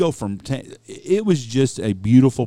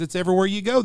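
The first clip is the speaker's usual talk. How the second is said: higher, lightly imitated northern accent; retold northern-accented retort, pitched up; 9 semitones higher, faster than usual. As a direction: mimic a woman with a hint of northern accent. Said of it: "She had that northern accent kinda".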